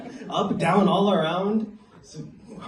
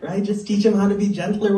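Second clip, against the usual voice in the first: mock approving; 6 semitones higher than usual. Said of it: "And I was like".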